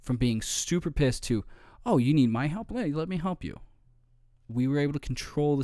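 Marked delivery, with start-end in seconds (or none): 1.8-3.6 eager to help. Retold or imitated. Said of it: "Dude instantly flipped".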